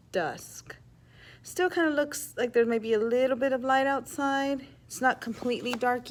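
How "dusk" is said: soft, low dusk. Shown as a demonstration. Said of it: "So dusk means".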